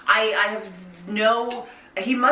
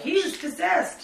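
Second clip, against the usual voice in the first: slow, high mock-earnest mother; 8 semitones higher, slower than usual. Mocking a mother who blames ghosts, slow and high. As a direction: deliver it like a dramatic claim. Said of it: "and she's like".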